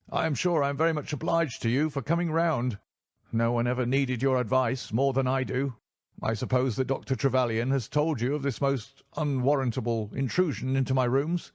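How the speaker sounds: a frightened man checking the strangers; nervous reedy man. A narrator's reading. Nervous patient voiced.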